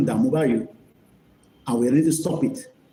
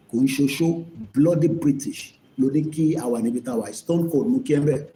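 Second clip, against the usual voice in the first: ordinary talk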